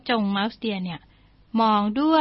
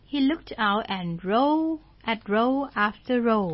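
slow story reading; much slower than usual. Shown as a demonstration. English story read slowly.

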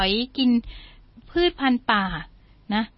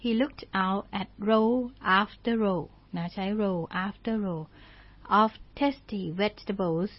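slow story reading; much slower than usual. Shown as a demonstration. English story read slowly.

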